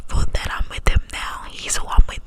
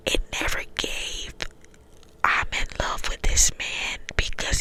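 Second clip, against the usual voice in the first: cupped hand whisper, close to the mic. Real, not acted. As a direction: whisper through cupped hands. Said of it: "I'm trying to do the cup whispers".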